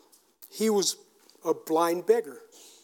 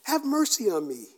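raised-pitch plea at ordinary volume; acted pleading call; 5 semitones higher than usual. Blind beggar begging for mercy, easing-off call. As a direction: echo the yell, easing off. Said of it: "And he's yelling it out".

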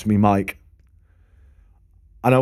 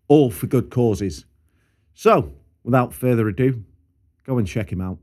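measured promotional read. Acted. Host plugging a guitar repairer, measured ad read. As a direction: deliver a sponsor plug in separate, deliberate phrases. Reads a sponsor ad.

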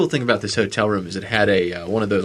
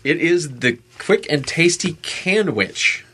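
slow, higher-pitched product announcer; mock ad read; 6 semitones higher, slower than usual. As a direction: pitch it grandly like a hammy commercial. Reads product slogan like an advert.

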